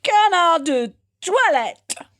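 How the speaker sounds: slow reverent whisper of the fake French name; whispered echo. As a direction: echo it in a hushed, mock-solemn tone. Echoing the mock toast.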